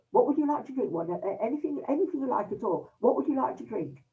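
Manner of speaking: polite host. Retold or imitated. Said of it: "beautiful manners".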